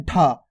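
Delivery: ढा pronounced with a push of breath; ज़ोर वाला ढा. Shown as a demonstration. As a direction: put some force into the aspirated ढा. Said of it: "थोड़ा जोर लग के हो रहा है". (ढा थोड़ा ज़ोर लगाकर)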